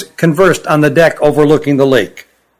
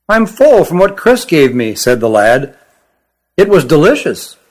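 put-on young creature voice. Young Kirin declines food.

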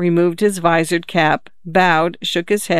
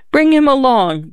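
short and higher, cutting it off; curt; 8 semitones higher, 3 dB louder than usual. A narrator's reading. Lady curtly orders the sailor to fetch the boy, curt. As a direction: clip the order short and sharp. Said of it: "the married lady said curtly".

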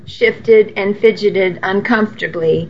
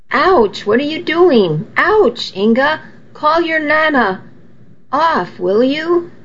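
higher, pained cries of a man being whacked; startled yelps; 6 semitones higher than usual. A narrator's reading. A man being whacked with a cane cries out for help. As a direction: yelp at each blow, begging for help.

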